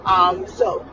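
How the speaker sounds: hiccuping while talking; with hiccups. Real, not acted. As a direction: talk through hiccups. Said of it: "I have hiccups".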